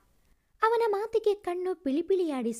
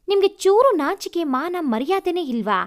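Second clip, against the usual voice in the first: mild scolding; 3 semitones higher, 3 dB louder than usual. Acted. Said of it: "ಎಂದು ರೇಗಿದಳು".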